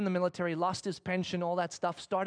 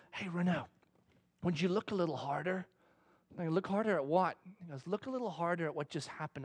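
gentle whisper of God; 2 semitones lower, 6 dB quieter than usual. Retold or imitated. God to the pastor in the shower, gently and softly. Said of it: "that little whisper comes".

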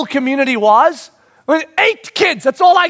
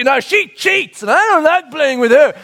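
put-on whiny girl complaint; 4 semitones higher, 3 dB louder than usual. Daughter complaining at board game.

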